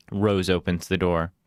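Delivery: ordinary delivery, nothing marked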